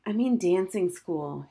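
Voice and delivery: slow, understated grimness; grim. Acted. Girl admitting she must attend dancing school, slow and grim. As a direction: say it like a sentence passed. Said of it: "Harriet said grimly".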